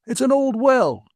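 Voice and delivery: put-on high, peevish old man voice; a cranky old man stating the obvious; grumpy old man. A narrator's reading. Old man answers trooper.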